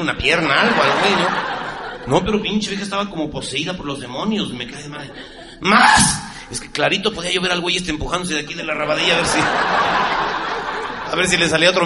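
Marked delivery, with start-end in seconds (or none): 5.6-6.2 mock woman shrieking. Woman demanding more again.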